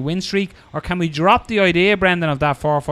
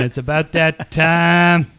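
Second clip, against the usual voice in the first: drawn-out hype voice; slow dramatic announcer; 5 dB louder, slower than usual. Retold or imitated. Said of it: "brought a watch in going".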